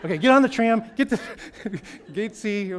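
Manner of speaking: high, loud, giggling instructions; can't stop laughing while giving directions; laughing through directions. Retold or imitated. Retelling the phone call to lost Apsara, laughing. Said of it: "It's like".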